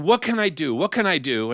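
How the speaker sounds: high, pleading queen voice; a wife fretting over her husband; worried queen. Acted. Queen begs last wise man.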